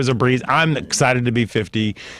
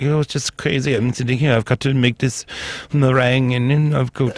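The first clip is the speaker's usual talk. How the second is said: put-on German accent; 4 semitones higher than usual. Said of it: "sounds kind of like this".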